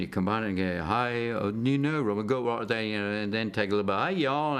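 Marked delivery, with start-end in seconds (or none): 0.8-2.8 put-on English accent with a Southern touch; lightly demonstrated English-Southern accent; English-Southern accent blend. Shown as a demonstration. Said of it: "a little bit of an English accent". 4.0-4.6 demonstrated Southern drawl, higher pitched; mock Southern US accent. Shown as a demonstration. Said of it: "southern accent".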